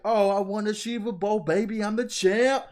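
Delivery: gloating winner in a high voice; Ruxin. Retold or imitated. Friend retelling a happy Ruxin's fantasy football win, high gloating. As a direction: crow it loud and high like a champion. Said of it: "he's happy 'cause he won".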